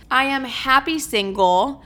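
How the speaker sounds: "happy" read off a list with a rising, doubtful tune; unconvincing. Real, not acted. Reading her list aloud and sounding unconvinced. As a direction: say "I am happy single" like reading a list, not believing it. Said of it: "The way I said that was so unconvincing".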